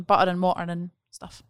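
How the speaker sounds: "Butter" and "water" with the T's dropped into glottal stops. Shown as a demonstration. Admitting careless speech to co-hosts, glottal stops in "Butter" and "water". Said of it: "when I'm not paying attention".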